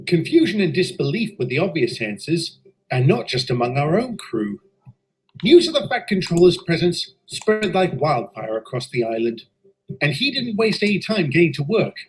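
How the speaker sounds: steady storytelling voice, looking back; story narration. A narrator's reading. Engine narrator telling listeners of the inspection, calm narration. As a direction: recount the tale evenly like a memoir.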